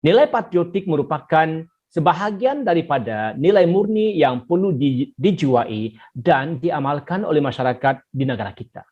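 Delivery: "Nilai patriotik" read clearly, phrase by phrase; clear reading with intonation. Shown as a demonstration. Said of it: "Jadi kamu bacalah begini".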